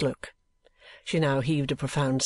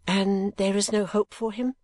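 compassionate; 6 semitones higher than usual. Acted. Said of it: "said Kate compassionately".

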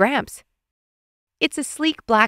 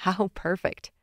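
softer, through a yawn; 6 dB quieter than usual. A narrator's reading. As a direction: let a yawn stretch the words. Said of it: "Dad smiles through another yawn and says".

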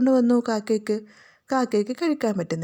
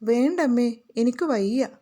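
mild, half-crying whine; whining. Acted. Sick little girl refuses her mother's sweets, mildly whining. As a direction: whimper it like a sick child. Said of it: "baby ചിണുങ്ങി".

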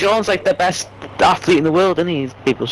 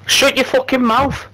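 sharp, higher yell at the speaker; angry yell; 7 semitones higher than usual. Real, not acted. Yelling at Alexa to shut up. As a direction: shout it down angrily.

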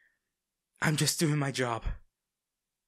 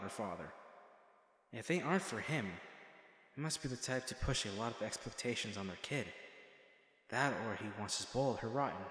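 softer, as if thinking aloud to himself; hushed inner thoughts; 2 semitones lower, 7 dB quieter than usual. Acted. Bodyguard musing to himself about her father, hushed.

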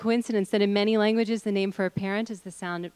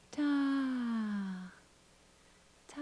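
falling sound; 5 semitones higher, 5 dB quieter than usual. Shown as a demonstration. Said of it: "So let's do this".

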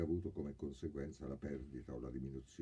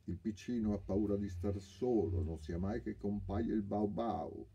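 put-on higher, taunting baby talk; mocking; 6 semitones higher, 5 dB louder than usual. A narrator's reading. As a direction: tease him like a scared child. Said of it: "Il ladro lo canzonò".

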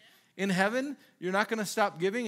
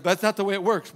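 exclaimed; 7 dB louder than usual. Retold or imitated. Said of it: "it's like".

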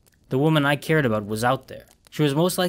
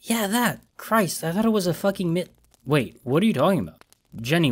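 put-on higher, anxious young woman's voice; girlfriend on the phone; 6 semitones higher than usual. Girlfriend on phone warning about the alert, anxious. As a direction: voice her worried and rushed.

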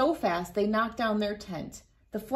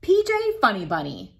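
louder, quick motherly call; 5 dB louder, faster than usual. Acted. Mother calling her son, louder quick call. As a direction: call him home urgently.

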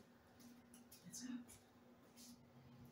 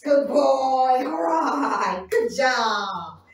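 loud dog praise; 6 dB louder than usual. Real, not acted. Cheering dog loudly.

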